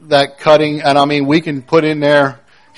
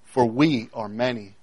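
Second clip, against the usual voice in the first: slow, softer, lower hint of a spirit; lightly voiced spirit; 5 semitones lower, 5 dB quieter than usual. Spirit gives Jesus its name, lightly voiced spirit. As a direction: answer slowly, dropping low, as the spirit. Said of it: "this is the Spirit speaking".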